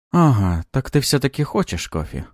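high woman's voice with a smirk; amused teasing. A narrator's reading. Lida catching Maxim wanting coffee, amused and teasing. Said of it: "усмехнулась Лида".

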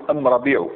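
أم ربيع with am- in place of al-; Himyar article. Shown as a demonstration. Teacher correcting to Himyar speech, am- for al-. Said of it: "هما عندهم أم".

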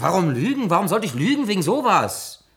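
loud, indignant denial; indignant protest. Acted. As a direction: defend yourself hotly. Defends himself indignantly.

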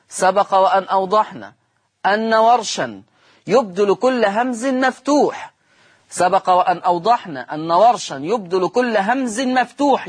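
measured, phrase-by-phrase classroom dictation; slow dictation. Shown as a demonstration. Teacher repeats the rule for students writing along, slow dictation. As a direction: dictate slowly, pausing after each phrase.

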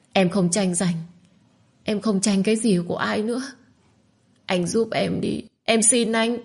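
wounded, broken-hearted begging; young woman lamenting, rising to a final plea; utterly mournful. Acted. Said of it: "Giọng của cô thê lương đến cực điểm".

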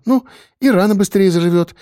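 "и рана быстрее заживёт" sung up high, coaxing; doting coax. A narrator's reading. Wife coaxing husband to eat, high doting lilt. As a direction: push "и" up high like a nurse to a child. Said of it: "не сдавалась она".

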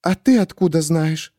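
suspicious question. A narrator's reading. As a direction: demand how he knows.

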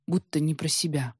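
usual speaking voice

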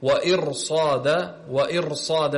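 وإرصاد with a thick, broad ra; heavy ra. Shown as a demonstration. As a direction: demonstrate the heavy ra before sad in وإرصاد. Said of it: "هنا أيضًا تفخم".

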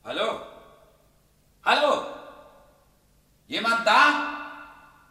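high calling into the house. Acted. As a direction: call out to anyone there.

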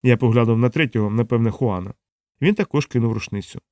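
ordinary delivery

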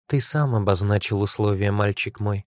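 pleased goddess, lightly voiced; a satisfied goddess speaking from afar. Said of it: "Довольный голос богини доносился словно издалека".

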